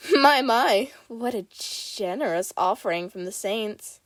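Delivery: loud, teasing call to the crowd; mocking showman voice; mischievous boy calling out. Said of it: "he calls out".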